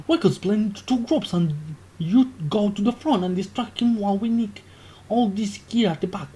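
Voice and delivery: hushed plotting voice, dropping to a whisper; conspiratorial whisper. Acted. Waffle Sniff plots in the back of the shop, whispering.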